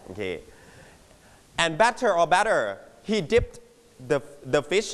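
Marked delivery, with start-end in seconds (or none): 1.8-2.1 "batter" with a British clear T; British pronunciation. Shown as a demonstration. Teacher offering both versions before the example, British "batter" with crisp T. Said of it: "ถ้าเป็นอังกฤษจะ". 2.4-2.6 "batter" with an American tapped T; American pronunciation. Shown as a demonstration. Teacher offering the second version to class, American "batter" with tapped T. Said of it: "ถ้าอเมริกันก็".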